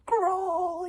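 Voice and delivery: high, loud urgent yell; a sharp, high, loud cry. A narrator's reading. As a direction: yell the order to flee. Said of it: "yelled Wish".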